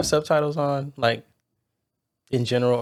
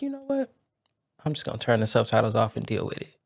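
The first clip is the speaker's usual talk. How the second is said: soft, low-key talking to oneself; decide it privately, well under your usual volume; hushed, resigned aside; quiet resolve; 4 semitones lower, 9 dB quieter than usual. Retold or imitated.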